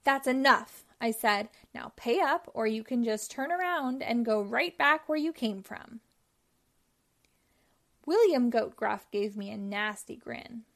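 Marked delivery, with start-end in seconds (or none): 0.0-0.8 loud, cutting stop; troll losing his temper at the goat; angry. Acted. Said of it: "I got really mad". 1.7-6.0 angry. Acted. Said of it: "I got really mad".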